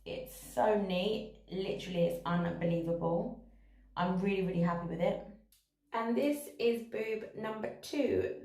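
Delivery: echoey bathroom sound; speaking in a tiled bathroom. Real, not acted. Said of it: "Sorry about the echo in".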